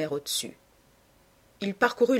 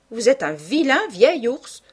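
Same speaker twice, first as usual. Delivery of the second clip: playful scolding; 6 semitones higher, 7 dB louder than usual. Acted. Sister teasing her grumpy brother, playfully scolding. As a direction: scold him in fun, stretching the words.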